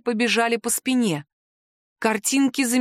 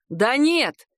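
sudden shout; 5 semitones higher than usual. Acted. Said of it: "вдруг крикнул Мартинель".

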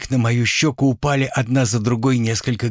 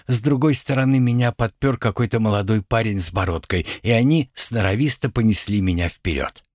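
normal talking voice

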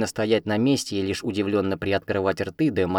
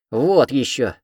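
loud, cheeky yell back; shouted retort; 4 semitones higher, 6 dB louder, slower than usual. A narrator's reading. Cat shouts back at the heroine. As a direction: holler it over the shoulder. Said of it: "кричит он в ответ".

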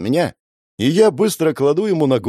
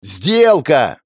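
louder, forceful shout; yelling deal; 4 semitones higher, 5 dB louder than usual. Acted. Hero shouts the deal at the uncomprehending girl. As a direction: bellow it to get through to her. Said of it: "ору".

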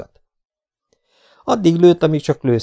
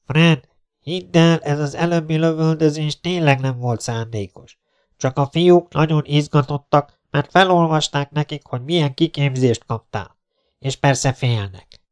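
friend on loudspeaker; 5 semitones higher than usual. Acted. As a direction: call out to convince your friend. Friend pleads over the loudspeaker. (hangszórón győzködő barát)

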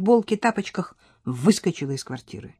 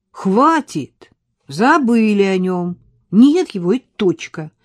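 louder, firm and decisive; resolute outburst; 6 dB louder, slower than usual. Acted. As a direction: cut it off: enough. Настя сердито решает для себя. (решительно, громче)

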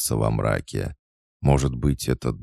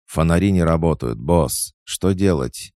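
quick, higher, louder panicky report; alarmed henchman; 6 semitones higher, 5 dB louder than usual. A narrator's reading. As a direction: beg the boss for orders in alarm. Alarmed henchman asks boss for orders.

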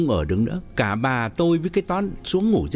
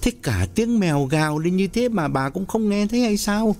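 irritated; 8 semitones higher than usual. A narrator's reading. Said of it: "Lý Hưng bực bội hỏi thêm".

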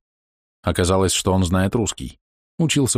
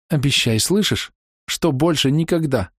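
tearful, insistent plea, pitched higher; demanding plea; 6 semitones higher than usual. A narrator's reading. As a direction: beg him through recent tears. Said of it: "требовательно смотрели влажные глаза".

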